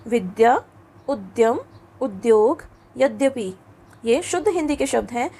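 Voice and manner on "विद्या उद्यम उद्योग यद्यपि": विद्या with a clear द्य; model pronunciation. Shown as a demonstration. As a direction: read the द्य words as models. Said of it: "इसका इस्तेमाल हम कहाँ करते हैं". (द्य वाले शब्दों का स्पष्ट उच्चारण)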